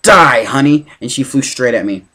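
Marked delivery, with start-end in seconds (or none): 0.0-0.9 louder snarl, hitting "Die" hard; a furious monster's snarl as she lunges; snarled threat. Acted. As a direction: spit it out as an attack. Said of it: "She snarled".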